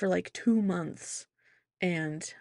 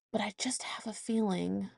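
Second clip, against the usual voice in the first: half-whispered aside; whispered confession; 7 dB quieter than usual. Real, not acted. Mother confiding to listeners in a whisper. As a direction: lean in and whisper it.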